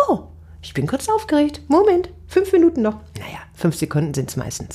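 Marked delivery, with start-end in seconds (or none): 0.1-3.0 honest admission. Shown as a demonstration. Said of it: "kurz sagen deinem Publikum".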